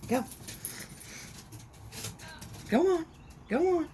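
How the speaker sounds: calling to the dog. Real, not acted. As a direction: send the dog off with a bright high call. Sending the puppy off.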